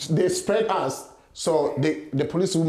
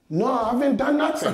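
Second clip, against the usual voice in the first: scared protest; 6 semitones higher than usual. Retold or imitated. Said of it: "because I'm scared".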